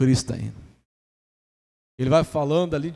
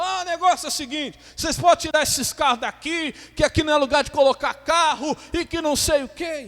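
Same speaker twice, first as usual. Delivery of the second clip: higher and louder, mock-bossy order; bossy pastor voice; 8 semitones higher, 5 dB louder than usual. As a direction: play the rude man ordering people off the square. (imitando o pastor grosseiro, mais alto e mandão)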